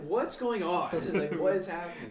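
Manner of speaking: loud, high mock alarm; bewildered outcry. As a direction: retell it as a baffled shout over the chaos. Acting out his shock amid puking.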